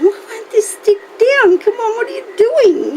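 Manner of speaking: high, giggling, exasperated self-quote; quoting her own annoyance while laughing; laughing at her own frustration; mock frustration through laughter. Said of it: "I'm here thinking".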